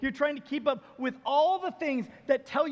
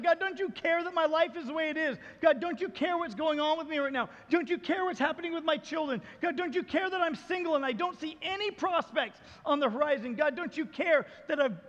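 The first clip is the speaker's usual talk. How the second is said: crying out to God; 5 semitones higher than usual. Retold or imitated. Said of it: "we cry out to God".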